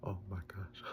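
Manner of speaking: hushed, breath-filled whisper; soft retold gasp of relief. Retold relief that Spider lives.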